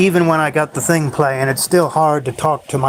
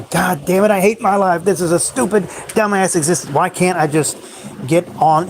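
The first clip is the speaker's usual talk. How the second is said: raised, exasperated rant at life; a frustrated worker ranting alone in his room, higher and raised; venting to yourself; 4 semitones higher than usual. Retold or imitated. Alone in his room after work, pitched-up frustrated venting. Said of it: "going off into your room after a bad day".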